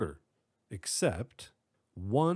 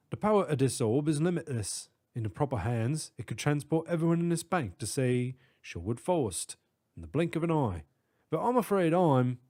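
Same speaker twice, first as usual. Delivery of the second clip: put-on British accent; 3 semitones higher than usual. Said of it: "distinct British accent".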